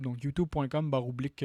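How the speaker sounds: normal talking voice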